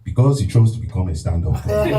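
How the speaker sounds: Nigerian dad delivering a punchline, pleased; lightly voiced proud father; impression of his father. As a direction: deliver the dad joke with pride. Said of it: "the impression of your father".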